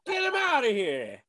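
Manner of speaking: comic bellow at the end of a rant; mock outrage. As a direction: throw him out in hammed-up fury. Mock outrage on learning he's Australian.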